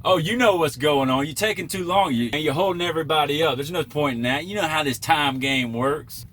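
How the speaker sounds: high, loud scolding northern voice; annoying northern accent. Retold or imitated. Trucker mocking the scolding driver in a northern accent. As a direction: lecture him in the pushy northern accent. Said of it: "annoying northern accent".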